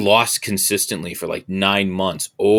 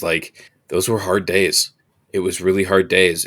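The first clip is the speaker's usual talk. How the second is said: choking up; slower than usual. Real, not acted. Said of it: "I'm even choking up now".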